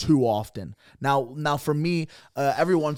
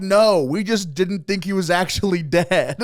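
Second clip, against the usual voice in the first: laughing excuse; 5 semitones higher, 4 dB louder than usual. Retold or imitated. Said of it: "They're like".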